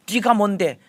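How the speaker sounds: high, mild shout at yourself; shouting at oneself. Shown as a demonstration. Pastor shows shouting the rebuke inward, beating his chest. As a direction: cry it out while beating the chest. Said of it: "소리칠 수 있어야 됩니다".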